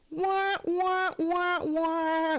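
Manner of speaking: high, held wah-wah noise; mock sad trombone. Fan asks whatever happened, mock sad trombone. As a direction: imitate a comic failure horn. Comic letdown sound after remark.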